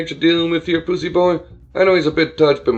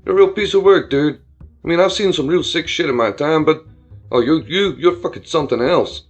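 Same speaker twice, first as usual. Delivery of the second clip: loud, higher disgusted rant; upset bro rant; 4 semitones higher, 5 dB louder than usual. Acted. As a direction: lose your cool at him. Buddy rants, upset.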